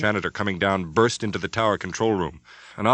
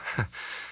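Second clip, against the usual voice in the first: nervous little laugh; 7 dB quieter than usual. Acted. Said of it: "She tried to smile back".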